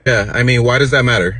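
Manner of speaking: put-on snippy Valley Girl comeback; loud, annoyed Valley Girl; Valley Girl accent. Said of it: "this Valley Girl accent".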